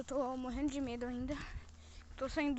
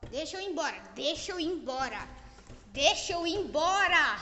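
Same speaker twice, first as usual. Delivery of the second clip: louder and louder pleading; desperate plea; 3 semitones higher, 10 dB louder than usual. Real, not acted. Begging the ghost to let him leave, growing louder. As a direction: beg to get out.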